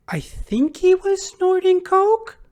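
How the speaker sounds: high, slow falsetto aside, mocking her. Vlogger mocking the ex-wife's testimony in a high, slow falsetto. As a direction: squeak it out in a high, slow put-on voice.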